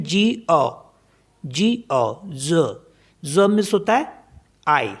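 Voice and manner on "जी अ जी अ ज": ज said as French je with a short schwa; French pronunciation. Shown as a demonstration. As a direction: say ज with a short uh vowel. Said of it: "French में बोलते हैं".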